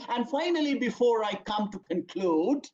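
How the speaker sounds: cue the audience that the end is near; signposting phrase demo. Shown as a demonstration. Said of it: "when the person will say".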